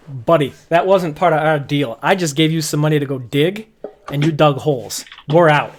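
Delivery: fed-up worker. Acted. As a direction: shove the words out, walking away. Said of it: "He says".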